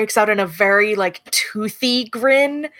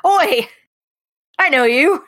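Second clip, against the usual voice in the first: higher-pitched, hearty hail; captain's accented call; 6 semitones higher, 4 dB louder than usual. Acted. Captain hails Chert on recognizing them, accented call. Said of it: "I didn't get into the accent".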